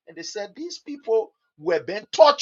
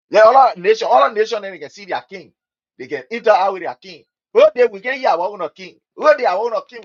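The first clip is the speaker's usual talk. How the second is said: insistent louder demand; 7 dB louder than usual. Retold or imitated. Crowd insisting on a king.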